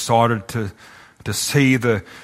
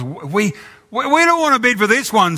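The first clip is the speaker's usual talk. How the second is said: shout from the crowd; 9 semitones higher than usual. Acted. Bidder at the back shouting down the portrait. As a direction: yell it from the back of the room. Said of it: "shout somebody".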